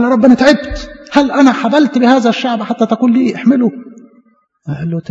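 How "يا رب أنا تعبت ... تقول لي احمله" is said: higher, weary complaint to God; complain, worn out and pleading; a touch of tired Moses. Acted. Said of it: "موسى استثقل الخدمة، قال".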